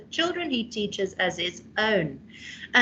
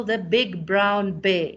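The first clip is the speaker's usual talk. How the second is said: slow alliteration example; 3 semitones lower, slower than usual. Shown as a demonstration. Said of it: "for example".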